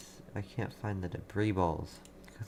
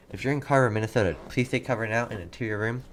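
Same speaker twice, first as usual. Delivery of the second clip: raised, urgent call to take cover; pressing, louder, real concern; urgent warning; 2 semitones higher, 4 dB louder than usual. Real, not acted. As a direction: sound the alarm for viewers in Carver. Urgent tornado warning to viewers.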